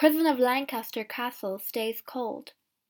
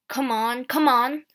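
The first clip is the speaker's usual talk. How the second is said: mild angry hurry, growing louder; 6 dB louder than usual. Acted. Guard rushing the prisoner out, mildly angry. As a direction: push her along, losing patience. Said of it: "the guard says angrily".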